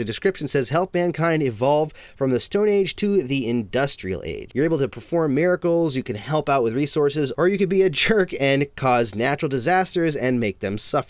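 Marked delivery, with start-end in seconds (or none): none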